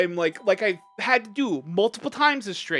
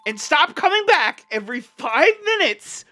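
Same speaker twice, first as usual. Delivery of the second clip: higher, louder, fed-up demand; angry demand; 5 semitones higher, 4 dB louder than usual. Real, not acted. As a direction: tell them off, voice rising.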